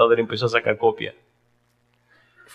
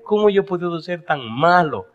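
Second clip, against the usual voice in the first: tearful, slow self-reproach that swells higher and louder; a son sobbing out his failures to his mother; crying confession; 5 semitones higher, 4 dB louder, slower than usual. Retold or imitated. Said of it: "empezó a gritar". (confesión entre lágrimas, lenta y creciente)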